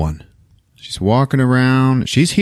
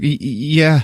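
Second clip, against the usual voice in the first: mock nervous stammer, pitched up; scared; 6 semitones higher than usual. Frightened woman answering the intruder, stammering. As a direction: stutter it out, imitating fear. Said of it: "She's scared".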